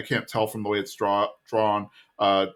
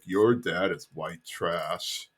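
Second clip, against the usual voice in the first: slow, low, softer deadpan; Dooley deadpan; 5 semitones lower, 6 dB quieter, much slower than usual. Retold or imitated. Dooley telling Connie about her dad, slow and low. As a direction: drop it slow and flat, lower. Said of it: "Dooley's like".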